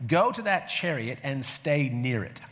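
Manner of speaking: slow, solemn command, lightly voiced; a hint of a divine instruction; voice of the Spirit. Pastor quoting the Spirit to Philip, slow and solemn. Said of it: "when the Spirit told Philip".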